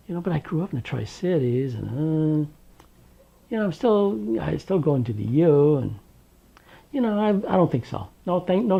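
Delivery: a breezy, high, teasing dodge; high, nonchalant brush-off to the thug; mock casual. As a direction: play dumb, lightly, with them. Mock-casual reply to the attacker.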